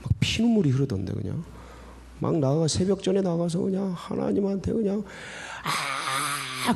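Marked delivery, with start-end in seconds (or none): 5.6-6.7 muted, drawn-out imitation of a cry; imitated scream. Preacher retelling his lone dawn outcry to God, subdued imitated scream. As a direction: reenact a scream without full volume. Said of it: "그러면서 막 소리 지르고 막".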